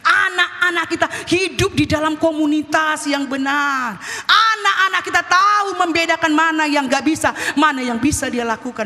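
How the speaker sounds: rhythmic, rising sermon cadence; emphatic preaching. Acted. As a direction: drive each parallel phrase home. Preaches in building parallel phrases. (khotbah penuh penekanan)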